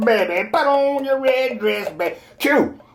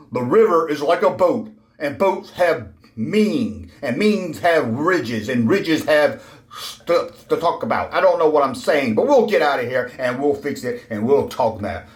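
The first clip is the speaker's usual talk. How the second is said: much lower, dopey nonsense voice; rambling dim character; 8 semitones lower than usual. Acted. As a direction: drone on like a confused fool.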